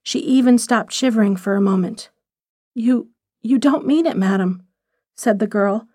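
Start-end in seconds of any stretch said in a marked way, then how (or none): 2.7-4.6 pained. Acted. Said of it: "there was pain in her voice".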